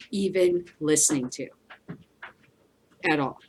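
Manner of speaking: ordinary talk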